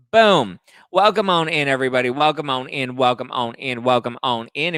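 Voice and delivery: loud, chanted welcome; hype intro. Real, not acted. Host kicking off the podcast, loud and hyped. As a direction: pump up the audience as the show opens. Starting the recording, show intro.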